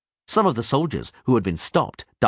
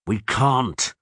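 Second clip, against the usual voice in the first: clenched teeth; 3 semitones higher than usual. Acted. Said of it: "through clenched teeth".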